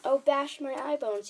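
distressed, drawn-out exclamation; distressed cry. A narrator's reading. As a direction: wail it in frustration. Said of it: "he cried".

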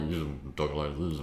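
low, soft relaxed talk in a singer's style; impression of a singer. Guest showing how you'd end up speaking, impression of a singer. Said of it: "we'd end up speaking like this".

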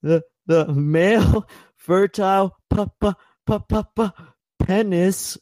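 high, slow stammer breaking into laughs; stammering in panic. Retold or imitated. Jimmy stuck reading the word penis, high panicked stammer. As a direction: stutter as if mortified. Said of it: "he just starts freaking out".

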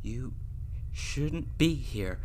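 scared, drawn-out protest; shaking voice. Acted. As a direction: slowly tell her, afraid. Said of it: "My voice was shaking".

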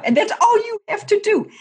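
almost squealing that it's all they do; exasperated. Real, not acted. Host venting to co-host about kickers, in high exasperated disbelief.

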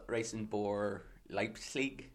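Leipzig said with a German accent; German pronunciation. Shown as a demonstration. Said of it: "trying to pronounce it Germanly".

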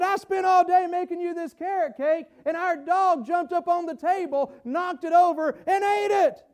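high-pitched, mock-upset wife. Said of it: "she's upset and she's crying".

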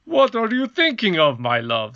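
king questioning his wife; goblin king. Acted. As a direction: ask it like a baffled king. King voiced by reader.

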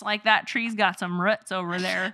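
light rural Midwest twang, "roots" with short oo. Retold or imitated. Host voices a rural Midwesterner with a light twang. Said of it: "I grew up in the rural Midwest".

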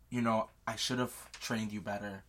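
low, quiet admission; subdued regret. Retold or imitated. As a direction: own up quietly to a failing. Chiron's regretful words to Percy.

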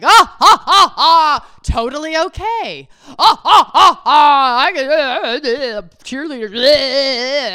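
loud forced laughter, stammering; fake laughing. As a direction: cackle awkwardly like you're caught out. Imitating husband's awkward laughing.

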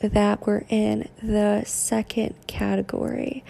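flat monotone robotic delivery. Real, not acted. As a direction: speak like a robot. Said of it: "I'm talking like a robot right now".

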